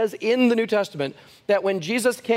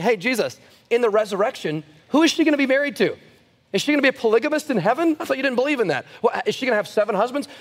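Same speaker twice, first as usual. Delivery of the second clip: higher, faster taunting questions; mocking Sadducees; 3 semitones higher than usual. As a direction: needle Jesus with sneering questions. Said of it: "They're going".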